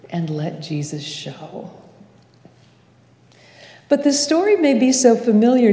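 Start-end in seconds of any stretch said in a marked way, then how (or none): 0.1-1.7 soft, lowered voice, almost a private prayer; hushed, prayerful close. Real, not acted. Preacher closing a blessing on gratitude and wonder, hushed prayer. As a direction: let it sink to a gentle hush.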